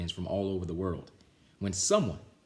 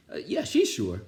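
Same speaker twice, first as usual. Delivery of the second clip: louder quick answer; louder hasty reply; hasty kids; 4 semitones higher, 6 dB louder than usual. Acted. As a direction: cover up fast.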